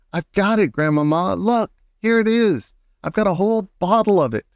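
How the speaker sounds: put-on high, jubilant child's boasting; excited cry. A narrator's reading. Grandson shows grandmother the captured bottle, excited high cry. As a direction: bubble over with triumph. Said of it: "I cried, jumping up and down".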